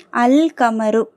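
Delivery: "அல் கமரு" with the L clearly sounded; teacher's model "அல் கமரு", full L; lam pronounced. Shown as a demonstration. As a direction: keep the L audible in "அல் கமரு". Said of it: "லாம் உச்சரிக்கப்படுது".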